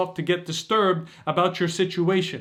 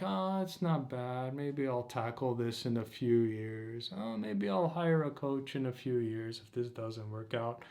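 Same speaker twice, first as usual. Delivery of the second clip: sleepwalking mumble; 5 semitones lower, 12 dB quieter than usual. Retold or imitated. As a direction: mumble like you're half asleep. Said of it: "this sleepwalk state where you're like".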